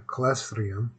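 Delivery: mumbled through missing teeth; slurred from a cut-up mouth; missing front teeth. Real, not acted. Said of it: "Can't pronounce that word".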